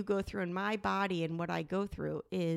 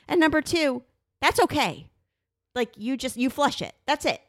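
retold scolding; 3 semitones higher, 5 dB louder than usual. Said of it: "And I was like".

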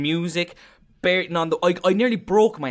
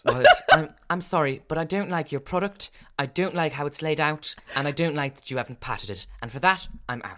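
Dragons' Den investor; 3 semitones higher than usual. Retold or imitated. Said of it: "Deborah Meaden has put her money away".

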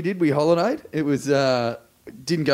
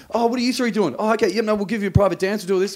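imitating the dancers; 6 semitones higher than usual. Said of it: "These girls were like".

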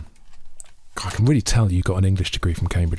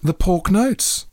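slow savoring; 9 semitones higher, much slower than usual. Real, not acted. Savoring the idea slowly.

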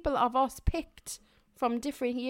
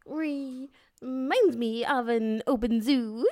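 Christopher Walken voice; slower than usual. Acted. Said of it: "better Christopher Walken".

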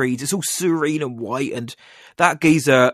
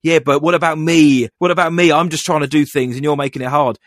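whiny husband; 2 semitones higher, 4 dB louder than usual. Retold or imitated. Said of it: "this guy's like".

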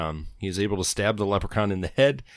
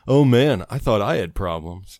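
mock exclaim; 6 dB louder than usual. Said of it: "and exclaims".

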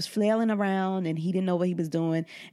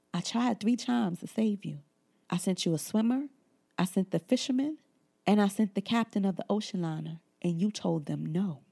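God's gentle rebuke. Retold or imitated. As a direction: speak as a patient, disappointed Lord. God answers the drowned man.

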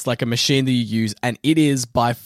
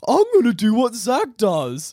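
cocky mock boast; 10 semitones higher than usual. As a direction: shout it like a show-off. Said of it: "and go".

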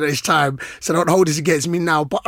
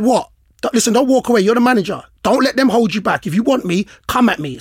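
heated challenge, slightly raised voice; retold anger; 5 semitones higher than usual. Player dares the departing manager to come at him, mildly heated. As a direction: goad him into coming back, indignantly. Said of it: "that's how mad I was".

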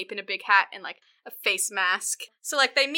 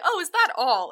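higher-pitched, dismissive mock question; shitty husband; 6 semitones higher than usual. Husband shrugging off his wife's complaint, mock dismissive. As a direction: brush her off as a shitty husband. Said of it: "the husband's super shitty".

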